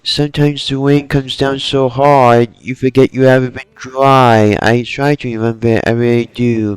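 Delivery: lightly attempted Brooklyn accent, slightly ditzy; a hint of a ditzy Brooklyn accent; Harley Quinn Brooklyn accent. Fan voicing a character's rain monologue, light Brooklyn accent. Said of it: "in a deep Brooklyn ditzy accent".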